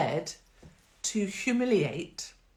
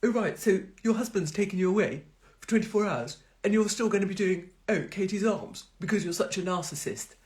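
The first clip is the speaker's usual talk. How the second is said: snide troll voice; 2 semitones higher than usual. Retold or imitated. Mocking trolls who call her narcissist, sneering. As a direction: parrot the bitter commenters with scorn. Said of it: "I don't know why they speak like this".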